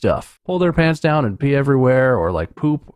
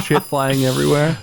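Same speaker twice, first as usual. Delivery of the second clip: usual speaking voice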